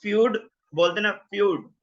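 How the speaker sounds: "फ्यूड" said clearly with a yoo glide; example word feud. Shown as a demonstration. Teacher giving feud as the example sound. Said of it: "जैसे".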